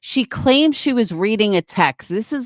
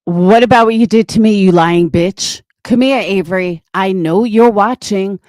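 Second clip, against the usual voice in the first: angry callout. Real, not acted. Host calling out Avery to join the panel, angry challenge. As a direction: challenge her hard, daring her to come on.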